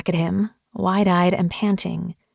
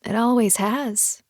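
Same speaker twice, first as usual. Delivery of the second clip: shuddering exhale; 3 semitones higher, slower than usual. Acted. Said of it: "I spoke through a shuddering exhale".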